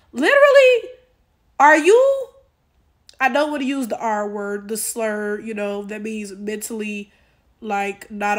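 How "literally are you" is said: high, loud disbelief; high pitched outraged cry; exasperated outburst. Real, not acted. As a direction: explode in disbelief. Exasperated outburst at her logic.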